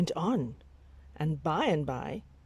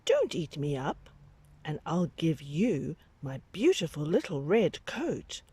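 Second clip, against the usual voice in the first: put-on pleading child.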